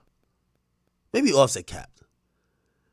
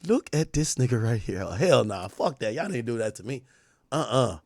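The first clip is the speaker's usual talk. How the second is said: put-on lower, quieter, teasing girl voice; mocking girlfriend voice; 7 semitones lower, 7 dB quieter than usual. Girlfriend mocking him on FaceTime, low and teasing. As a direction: sneer at him softly like his girl would. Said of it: "she like".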